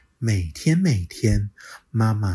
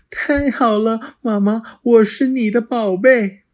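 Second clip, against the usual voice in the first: put-on high, louder delighted child; happy child; 13 semitones higher, 7 dB louder than usual. Little dinosaur to mother, high and delighted. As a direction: beam with relief.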